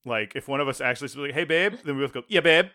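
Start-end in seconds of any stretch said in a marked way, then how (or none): 1.3-1.7 joking babe banter. Retold or imitated. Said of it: "jokingly call each other babe". 2.3-2.7 louder, higher mock-couple reply; exaggerated pet-name banter; joking babe banter. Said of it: "jokingly call each other babe".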